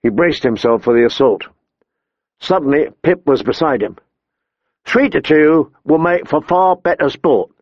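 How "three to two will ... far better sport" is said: mild, bright-spirited offer; cheerful. Acted. Small boy stepping up beside John, mildly cheerful. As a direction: join the fight gladly. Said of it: "the small boy said cheerfully".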